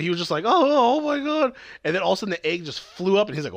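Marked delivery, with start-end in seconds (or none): 0.4-1.5 high-pitched mock astonishment; high "oh my God" in imitation; retold shocked reaction. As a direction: react like a startled cartoon character. Retold character's startled reaction.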